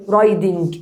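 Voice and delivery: RIDING said with a clear D in the middle. Shown as a demonstration. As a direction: show the wrong take, "riding" with a hard D. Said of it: "أنا مش بقول".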